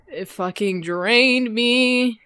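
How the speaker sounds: talking with hiccups; a hiccup breaking the words. Real, not acted. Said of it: "I got the hiccups".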